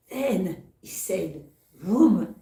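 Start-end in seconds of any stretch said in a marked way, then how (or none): 1.7-2.3 louder mock engine vroom; playful storyteller's sound effect; vroom noise. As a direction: throw in a spinning-wheel vroom. Spinning wheel starts.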